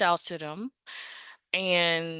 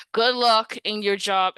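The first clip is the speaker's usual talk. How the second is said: dismissive send-off; 3 semitones higher, 5 dB louder than usual. Retold or imitated. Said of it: "and then click".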